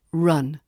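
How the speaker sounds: "run" with the uh of cup; pure uh vowel. Shown as a demonstration. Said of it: "with that pure uh sound".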